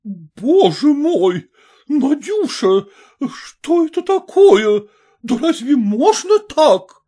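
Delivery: high, slow, alarmed mother's cry; horrified exclamation. A narrator's reading. Mother sees her daughter fall, alarmed high cry. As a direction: gasp it out at the fallen daughter. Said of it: "воскликнула штаб-офицерша".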